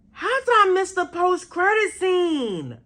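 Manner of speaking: high-pitched wail of frustration; mad. Real, not acted. Fan who missed the post-credit scene, mad. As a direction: cry out in exasperated disbelief. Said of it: "I'm so mad".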